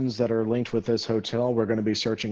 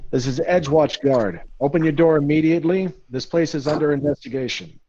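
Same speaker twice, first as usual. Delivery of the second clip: yelling guard; 5 semitones higher, 4 dB louder than usual. Acted. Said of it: "he's gonna yell out".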